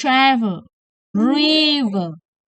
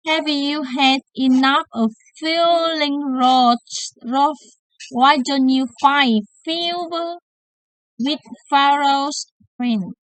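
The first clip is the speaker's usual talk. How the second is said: pitched up like a cheesy TV advert; playful spoof ad read; mock medicine ad; 2 semitones higher than usual. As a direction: sell the cure like a commercial.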